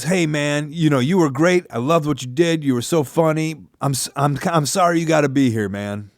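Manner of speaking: put-on light Alabama Southern accent; friendly Southern man, Alabama accent. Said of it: "I said it like a Southern man from Alabama".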